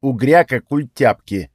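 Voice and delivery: slow, odd goblin speaking of himself; a stubborn little goblin, dragging the words; ворчливый гоблинский голос. Acted. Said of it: "ответил гоблин".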